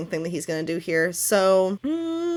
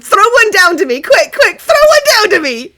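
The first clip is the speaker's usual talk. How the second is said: very high, loud, hungry creature voice; eager mermaid; 11 semitones higher, 11 dB louder than usual. Acted. A merfolk begs Sativa to toss an adventurer down, shrill and eager. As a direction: beg for a victim, faster and faster. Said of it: "You hear".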